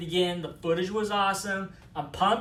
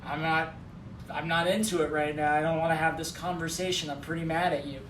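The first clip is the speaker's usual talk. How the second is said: low, understated inner voice; lightly voiced, low brush-off; mock annoyed indifference; 4 semitones lower, 3 dB quieter than usual. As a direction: imitate a man who is quietly fed up. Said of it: "that's what's going on in his head".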